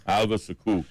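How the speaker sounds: "Suku" stressed on its second syllable; corrected pronunciation. Shown as a demonstration. Host resumes after being corrected, "Suku" with stress on the end. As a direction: say "Suku" as suh-KOO. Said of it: "pronouncing Suku a little bit different".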